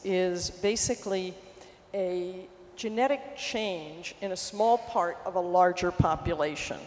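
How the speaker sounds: speaking into a shirt mic; talking into shirt. Real, not acted. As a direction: talk down into the shirt collar. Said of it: "I have to talk into my shirt".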